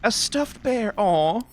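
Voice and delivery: disappointed aw. Real, not acted. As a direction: sag with disappointment, pitch way up. Disappointed by loot.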